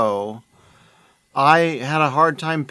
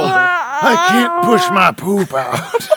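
much higher, slow, straining yell through laughter; constipated wrestler; 14 semitones higher, 4 dB louder, much slower than usual. Acted. Podcaster taking constipated too far as a strained shout. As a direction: strain it out like you're pushing. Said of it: "it's like your brain broke".

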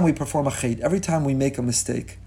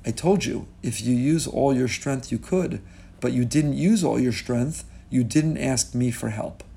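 gentle father; 3 semitones lower, 4 dB quieter than usual. Acted. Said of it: "And his father says".

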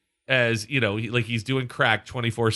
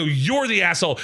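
higher-pitched angry comeback; retold yelling; 4 semitones higher than usual. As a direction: throw the insult straight back. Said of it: "I'm yelling so loud".

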